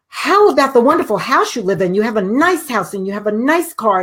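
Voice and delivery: high, quick, eager prodding; urgent coaxing. Retold or imitated. Daughter urgently coaxing her panicked mother, high and eager. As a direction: hurry her along before she thinks.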